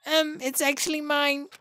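sweet little mascot answering; cute mascot voice. Acted. Mascot claims the voice.

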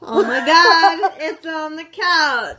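laughing. Real, not acted. Laughing over spill.

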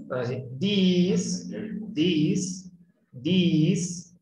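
this with the mouth wide, short i, said slowly; lemon-mouth this. Shown as a demonstration. Teacher showing the lemon-mouth this. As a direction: say this as if sucking a lemon. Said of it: "Chúpese un limoncito".

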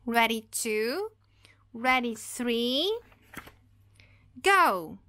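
slow whispered countdown that bursts out on go; countdown building to a loud go. Acted. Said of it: "ele fala".

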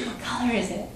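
softened, half-whispered question; hushed. Shown as a demonstration. Parent quizzing the child after asking for whispering, hushed. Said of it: "Can you whisper?".

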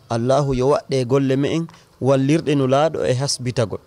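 measured recital of rhymed verse; verse recitation. Acted. Author reading the book's opening verses, measured verse recitation. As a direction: recite line by line in even cadence.

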